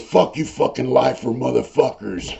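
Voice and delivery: imitated indignant cursing at normal volume; mildly heated mock outrage; mock butt-hurt. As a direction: retell an offended man's insult. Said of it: "this dude got butt hurt".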